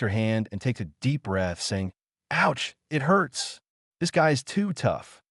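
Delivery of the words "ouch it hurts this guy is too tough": whiny sob. Acted. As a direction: pout about sore fists.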